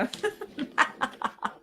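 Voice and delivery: high giggling fit; laughing. Real, not acted. Host teasing a viewer over a yep thing, high giggles.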